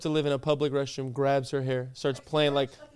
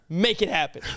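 pushy, higher-pitched bully demand; mock hostage-taker; 4 semitones higher than usual. Friend playing captor with a phone in your face, mock bullying. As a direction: badger them like a pretend bully. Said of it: "let's just flip the roles".

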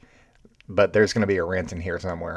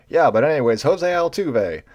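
dismissive mock; 6 semitones higher, 4 dB louder than usual. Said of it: "And he's like".

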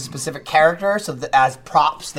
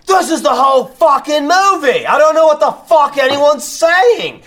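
high, loud bewildered rant; exasperated outburst; 10 semitones higher, 6 dB louder than usual. Retold or imitated. Actor lost on a Russian set, high loud exasperation. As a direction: throw up your hands in disbelief.

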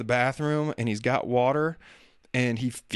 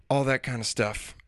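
ordinary delivery

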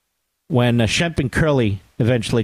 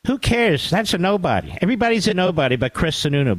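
lightly voiced dismissive politician, higher, rushing the last line; mock Chris Sununu; 6 semitones higher than usual. Radio host lampooning Sununu's dismissive line, mildly mocking. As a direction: toss it off like a smug governor, a hint of mockery. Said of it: "he also always says".

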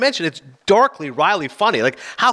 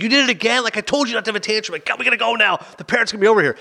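higher-pitched, mock-scolding parent; exasperated parent; 7 semitones higher, faster than usual. Parent to a child after a tantrum, mock exasperated. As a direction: put on a fed-up parent telling off a child. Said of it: "when your child has a tantrum at Chuck E".

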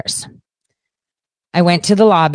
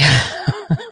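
chuckling at own joke; short, soft run of laughter; 3 semitones lower, 5 dB quieter than usual. Real, not acted.

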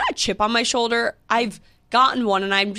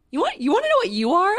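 high, fast confrontational retort; indignant, quickened comeback without shouting; retold anger; 10 semitones higher, faster than usual. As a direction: replay squaring up to someone, pitched up. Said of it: "I was so angry".

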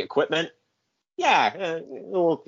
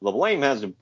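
lower, mumbling mock excuse; lightly voiced squirming boss; sheepish excuse; 5 semitones lower than usual. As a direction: dodge the blame lamely. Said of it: "And he's like".

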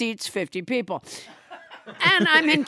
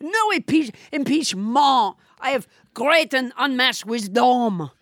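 fake French accent. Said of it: "French Trump".

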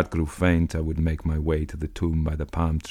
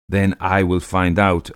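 slow, louder defiant cry; 3 semitones higher, 5 dB louder than usual. Acted. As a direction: cry it out stubbornly. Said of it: "I cried".

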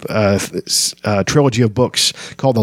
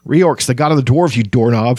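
a mild roar, raised pitch; 2 semitones higher than usual. Acted. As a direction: bellow at the kender, half-hearted. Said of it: "Flint roared".

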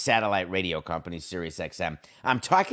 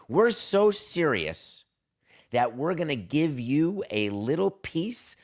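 milk the punchline slowly; mock earnest pitch; 5 semitones higher, slower than usual. Mocking a team's pitch to Yamamoto, slow rising build.

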